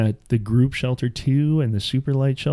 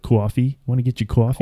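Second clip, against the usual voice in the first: New Jersey coffee. Retold or imitated. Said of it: "the way I said house and coffee".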